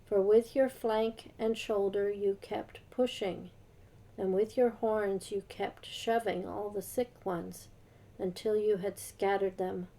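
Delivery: measured, formal Bible reading; a light formal reading voice; scripture reading. Acted. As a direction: read the passage out steadily, like a lesson in church. Reads Ezekiel passage aloud.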